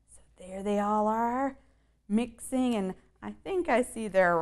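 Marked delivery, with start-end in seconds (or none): 0.1-1.6 whisper. Real, not acted. Reader whispers to the child watching the mummies. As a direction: lean in and whisper it. Reader hushes over the scene.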